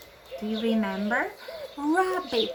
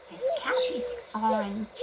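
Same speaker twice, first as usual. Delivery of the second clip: high repeat; 12 semitones higher, faster than usual. Shown as a demonstration.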